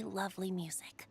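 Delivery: soft, breathy self-praise; whispered boast. Acted. Bard fondly praising his own music, whispered. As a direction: murmur it smugly to yourself.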